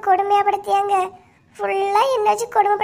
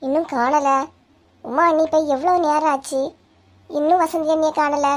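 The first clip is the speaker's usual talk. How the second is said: fake wailing; 5 semitones lower than usual. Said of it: "இப்படி ஒப்பாரி வச்சுக்கிட்டு இருக்கா".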